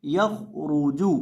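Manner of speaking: यख रूजू with a thick, rounded ra; heavy ra. Shown as a demonstration. Teacher showing the rule for ra, heavy ra in यख रूजू. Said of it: "इसको मोटा करके पढ़ेंगे".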